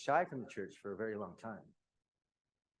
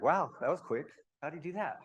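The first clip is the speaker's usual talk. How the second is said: higher, impressed mock reaction; imitated astonishment, pitched up; retold surprise; 7 semitones higher, 7 dB louder than usual. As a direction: act out a mother pleasantly amazed. Retold mother's amazed reaction.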